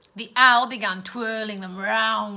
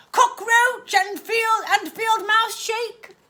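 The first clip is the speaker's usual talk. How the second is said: much higher, slow and sing-song; aunt coaxing her niece; sugary offer; 11 semitones higher, 6 dB louder, slower than usual. Acted. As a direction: tempt her with the revolting treat. Aunt offers vile shake.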